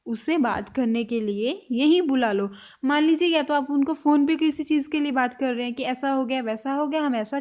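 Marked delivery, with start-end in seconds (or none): 0.0-2.5 slower, lower repeat. Shown as a demonstration. Teacher repeating the sentence slowly for students. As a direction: say it again slowly. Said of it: "next sentence में अब हम बोल रहे हैं".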